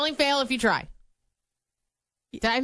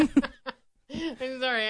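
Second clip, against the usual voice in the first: laughing; much slower than usual. Real, not acted. Giggling apology.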